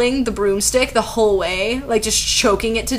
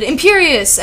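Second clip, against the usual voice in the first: higher-pitched, mildly shouted incantation; shouted spell; 6 semitones higher, 4 dB louder than usual. A narrator's reading. Voldemort casting a spell, mildly shouted. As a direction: cast it with a moderate shout. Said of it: "but then Voldemort shouted".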